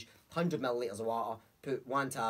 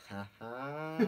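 knowing uncle laugh; 6 dB quieter than usual. Retold or imitated. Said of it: "ha resonated through me".

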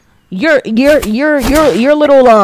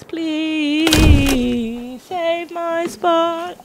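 soft pleading prayer; 6 semitones higher, 5 dB quieter, much slower than usual. Real, not acted. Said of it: "Please, Jesus".

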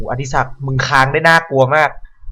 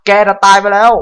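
loud, higher panicked yell; startled shout; 7 semitones higher, 9 dB louder than usual. Real, not acted. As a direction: yell out in fright. Startled by zombie.

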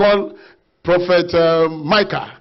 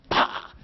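imitated slap sound; 5 dB quieter than usual.

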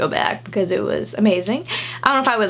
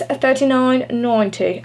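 playful put-on British accent, unhurried; slower than usual. Vlogger announces the skirt's price to viewers, mock British accent. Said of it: "saying all the prices in a British accent".

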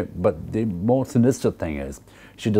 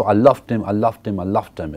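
starts louder on loved, then falls away; building then fading; 2 semitones higher, 3 dB louder than usual. Shown as a demonstration. The Intended pleading with Marlowe, building then dropping. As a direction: push the first one, let it sink. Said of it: "It's reaching a crescendo".

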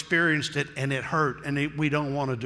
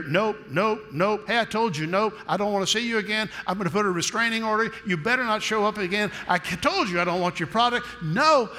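mock rejecting customer; 5 semitones higher than usual. Annoyed customer turning away a salesman, higher and fast. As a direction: brush off the pest, then slam it.

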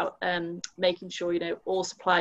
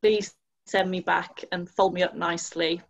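louder, sweet pleading packaging voice; cutesy baby voice; 6 dB louder than usual. Acted. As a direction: coax it like a lonely garment. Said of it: "you could say it in a cute way".

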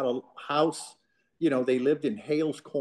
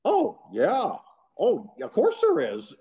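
mock agreement; 11 semitones higher, slower than usual. The speaker mocks, teasing.

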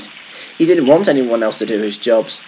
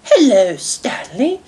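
high grandmother greeting; smiling Dowager Hat; 11 semitones higher, slower than usual. A narrator's reading. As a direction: greet with a smile in a high lady's voice. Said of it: "smiled Dowager Hat".

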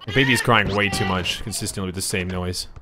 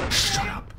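high, piercing "shut up"; sudden shriek; 3 dB quieter than usual. Real, not acted. Annoyed at noisy kid.

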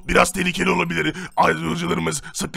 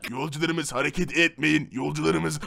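siren announcement; 3 semitones lower, 5 dB quieter than usual. Acted.

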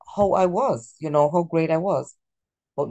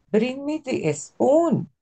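put-on Latino accent; 9 semitones higher, much slower than usual. Teacher imitating Latinos: Spanish-accented espoon, slow and high. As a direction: Bring me the spoon, slow and much higher, spoon with an added e, espoon. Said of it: "they will say".

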